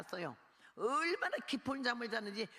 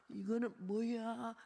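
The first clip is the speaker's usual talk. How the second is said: puzzled drawl; slower than usual. Retold or imitated. Finds a strange lump.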